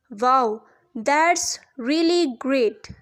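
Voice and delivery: very slow, drawn-out "wow", mildly pleased; read-out pleasure. Acted. Teacher reading a friend's reply from the dialogue, mildly pleased and very slow. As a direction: stretch each word in mild, deliberate admiration. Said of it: "ये expression of pleasure है".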